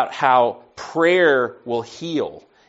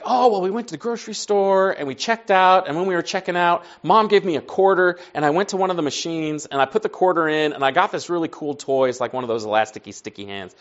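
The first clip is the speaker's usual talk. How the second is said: imitated little boy, higher and eager; excited; 5 semitones higher than usual. Young son telling dad about his new toy, excited. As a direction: tell it like an excited kid, voice raised. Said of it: "He's excited about his sticky hand".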